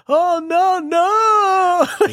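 high, loud wailing no; crying shout. Retold or imitated. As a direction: wail it out in panic. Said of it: "but, but".

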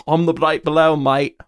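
casual attempt at an Australian accent. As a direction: slip into an Australian accent instead of British. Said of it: "That's Australian".

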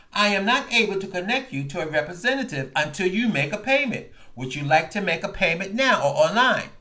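a hint of an automated menu voice; lightly voiced phone robot. Retelling the call, a light robotic phone menu voice.

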